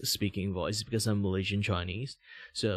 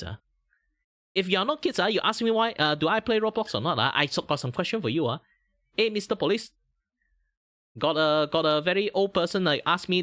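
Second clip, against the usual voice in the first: heightened VTuber voice; 7 semitones higher, 4 dB louder than usual. Acted. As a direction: push the pitch way up into the anime persona. Heightened voice, teasing chat.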